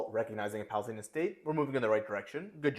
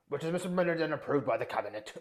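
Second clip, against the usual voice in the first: hammed-up posh British accent, reading a letter aloud; mock a stuffy British official with a bad British accent; terrible British accent; 3 semitones higher than usual. Reading the Balfour letter to Rothschild in a terrible British accent. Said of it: "I'm gonna do it in a terrible British accent".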